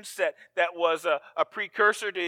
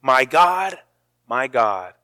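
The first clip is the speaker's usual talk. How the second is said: starts firm, then fades into a whisper; fading to a whisper; 5 semitones lower, 3 dB louder than usual. Shown as a demonstration. Preacher leading the congregation in the cry, fading to a whisper. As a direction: let the plea die away to a breath. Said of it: "Can you say that with me?".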